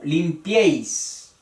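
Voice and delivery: limpiéis drawn out slowly on final -éis; stress on the E. Shown as a demonstration. Teacher shows the subjunctive, slowly stressing the E in limpiéis. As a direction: lean on the E of limpiéis. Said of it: "La E es la fuerte".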